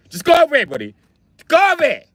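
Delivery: put-on high, exasperated Indian accent, loud. Exasperated robber sending victim off, high Indian accent. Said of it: "how you take an Indian guy serious".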